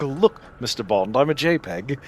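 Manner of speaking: quiet, understated Bond villain line; a hint of a smug Bond villain. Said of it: "appropriate Bond villain dialogue".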